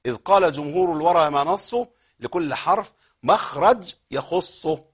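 slow, measured poem recitation; recited verse. Acted. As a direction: chant the verse steadily. (إلقاء نظم متأن)

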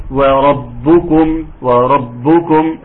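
وربكم slow with the meem closed and still; silent meem. Shown as a demonstration. Teacher demonstrating a still meem, slow. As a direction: stretch وربكم, lips shut on the meem. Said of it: "مراعاة تسكين الميم".

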